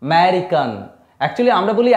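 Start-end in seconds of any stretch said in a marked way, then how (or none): 0.0-0.7 আমেরিকান with the opening a dropped, starting on m; silent first a. Shown as a demonstration. Teacher to students, আমেরিকান said with the first a silent. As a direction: say আমেরিকান as merikan with no vowel before the m. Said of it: "actually এটা silent থাকে".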